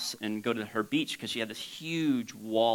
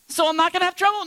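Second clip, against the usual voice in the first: hopeful questioning; 6 dB louder, faster than usual. Acted. Voices a hopeful listener questioning Jesus.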